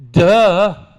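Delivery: loud, high, goofy duh; dumb little girl duh. Retold or imitated. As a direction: blurt it like a clueless kid. Granddaughter's blank response.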